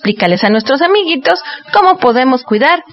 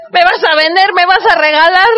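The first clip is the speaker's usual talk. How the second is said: higher, rising alarmed questions; 6 semitones higher than usual. Acted. Dinosaur asking the host if he'll be given away, alarmed. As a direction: sound shocked at being given away.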